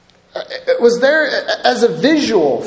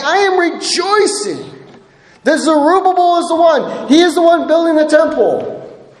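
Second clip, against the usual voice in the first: rising excitement; 5 semitones higher than usual. Acted. Preacher repeats God's words louder.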